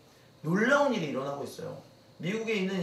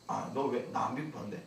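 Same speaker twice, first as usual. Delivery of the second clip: defensive winner; 7 semitones lower, 7 dB quieter than usual. Acted.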